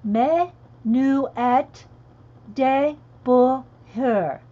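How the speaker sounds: Menuet de bonheur said slowly in halting French; attempted French. Shown as a demonstration. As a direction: stretch out de bonheur, trying the French. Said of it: "My French sounds like German".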